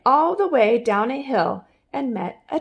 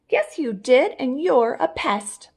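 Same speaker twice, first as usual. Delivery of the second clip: taunting; 4 semitones higher, 3 dB louder than usual. Acted. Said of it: "sisters taunting Homer".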